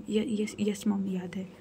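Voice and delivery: slow, stammering whisper; timid reply. Acted. Anya, scolded by her mother, answers in a scared whisper. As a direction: answer meekly, scared of mom.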